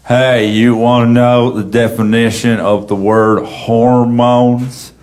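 slow, drawn-out joke delivery; open-mic comic. Retold or imitated. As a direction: imitate an amateur comic stretching out each punchline word. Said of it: "he told a joke ... He goes".

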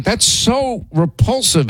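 high, slow, drawn-out disgust. Retold or imitated. Host retelling finding teeth marks in cheese, high slow disgust. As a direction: stretch it out, appalled. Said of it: "I'm like".

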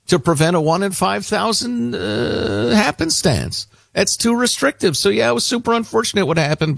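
mocking Fauci. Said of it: "how he rationalizes it".

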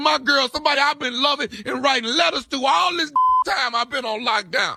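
a lightly voiced tough inmate calling from jail; prank jail inmate. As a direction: play a rough ex-con on the phone, only lightly put on. Prank caller plays jailed ex.

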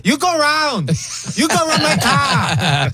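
high put-on Asian accent, laughing through the end; mock Asian accent. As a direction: ham up the Asian accent while telling him to go around. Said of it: "me doing my Asian accent".

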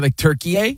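Turkey said the local way, ending in "eh"; native pronunciation. Shown as a demonstration. Explaining respectful speech to cohosts, native pronunciation. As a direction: say "turkey, eh" with a stressed final "eh". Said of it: "the way they say it".

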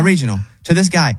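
ordinary talk

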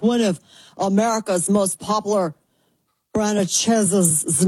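put-on newsy announcer read; mock announcer voice. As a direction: play a dramatic news anchor. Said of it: "I don't know why I'm talking like this".

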